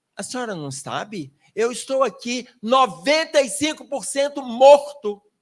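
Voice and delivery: indignant, affronted, offended tone. Retelling a sick man's reply to his spiritual guide: imitating an indignant reply. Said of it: "primeiro ele ficou indignado".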